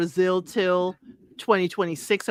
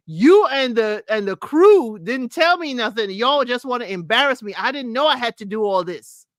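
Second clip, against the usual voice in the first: mock Chad's sulky complaint; imitating Chad; 2 semitones higher than usual. Host imitating Chad storming off, mock upset. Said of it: "what does it sound like, Chad, right?".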